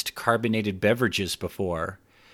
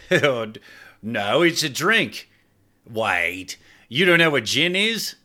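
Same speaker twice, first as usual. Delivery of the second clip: higher, startled voice; surprised Clive; 5 semitones higher, slower than usual. Acted. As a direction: catch the slip in disbelief.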